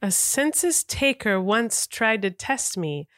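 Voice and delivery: slow, careful first reading of the lines; cold read of a quote. Shown as a demonstration. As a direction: read it out slowly, feeling for the meaning. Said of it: "just give it what you think is happening".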